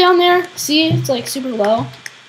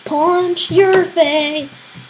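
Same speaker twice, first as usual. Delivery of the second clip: playful threat; 3 semitones higher, much slower than usual. Pretend.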